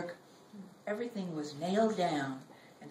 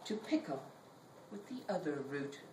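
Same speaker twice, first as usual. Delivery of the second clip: poem reading; 2 semitones lower than usual. Acted. Poet reading her own poem to an audience, measured.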